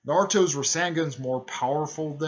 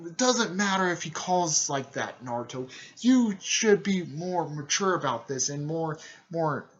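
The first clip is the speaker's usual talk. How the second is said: higher, raised telling-off, dragged out; hard scolding; 5 semitones higher, 4 dB louder than usual. Retold or imitated. Older sister brushing off his excuse, imitated scolding. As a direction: imitate a lecturing elder. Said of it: "was scolding Naruto pretty hard".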